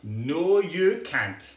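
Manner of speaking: firm refusal. Acted. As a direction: put the foot down.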